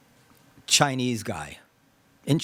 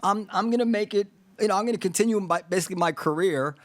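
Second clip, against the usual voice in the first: lightly voiced self-assured pundit, higher; imagined dismissive commentator; 6 semitones higher, faster than usual. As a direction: politely decline in a raised voice. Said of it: "say to the Chinese guy".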